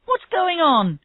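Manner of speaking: high, eager question; excited question. Acted. Officer from another station asks Havers amid cheering, excited.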